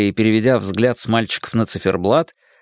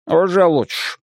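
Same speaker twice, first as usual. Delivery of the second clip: mildly mollified, pitched up; softening; 6 semitones higher than usual. A narrator's reading. Librarian relenting after the boy's answer, softening. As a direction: ease off a little. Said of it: "смягчился Де Розио".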